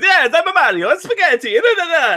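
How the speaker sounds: high cartoon Italian accent; high-pitched mock Italian, sing-song; mock Mario voice. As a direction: ham up a goofy Italian plumber. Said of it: "he goes".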